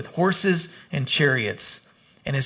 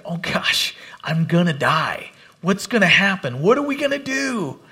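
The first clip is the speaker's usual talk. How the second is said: panicked servant. Retold or imitated. Preacher imitating the terrified servant seeing the army, frightened whisper rising to panic. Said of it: "he's afraid".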